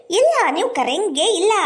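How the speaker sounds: swooping, emphatic reproach; indignant accusation. Acted. Acted quarrel, accusing mother-in-law.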